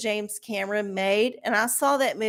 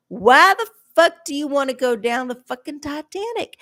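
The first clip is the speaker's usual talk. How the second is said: incredulous rant; 3 semitones higher, 5 dB louder than usual. Real, not acted. Ranting at Titan sub tourists.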